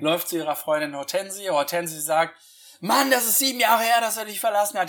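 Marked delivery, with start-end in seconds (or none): 2.8-4.9 mock exasperated urging, starting high and loud, easing off; eindringliches Zureden. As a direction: act the impatient friend pushing her. Voices friend urging her on. (gespielt ungeduldig auf die Freundin einreden)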